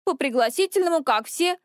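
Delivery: coolly disdainful reply; a touch of icy disdain; icy contempt. A narrator's reading. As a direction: answer with understated scorn. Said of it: "голосом полным ледяного презрения".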